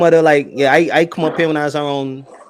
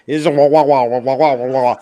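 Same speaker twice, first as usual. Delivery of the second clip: mock Jamaican gargling; 2 semitones lower, 4 dB louder than usual. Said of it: "drink some water and try to talk while water's in your mouth".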